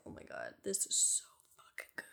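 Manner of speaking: hushed, breathy whisper of delight. Retold or imitated. Kid at church after prayer, whispering delight. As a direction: whisper it like a secret treat.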